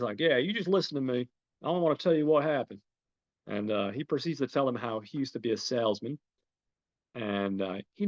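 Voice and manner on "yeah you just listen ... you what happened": lightly put-on Southern accent, higher. George setting the intruders straight, mock Southern accent. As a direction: imitate a Southern homeowner. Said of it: "there's definitely a Southern accent".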